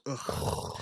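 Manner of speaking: soft, weary groan of no sympathy; disgusted groan. Acted. Friend reacting to sad crying drunks, soft disgusted groan.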